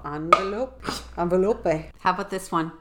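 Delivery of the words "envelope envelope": "envelope" in French style, starting AHN; French-flavoured "envelope", separately demonstrated; French word. Shown as a demonstration. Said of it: "French word for envelope".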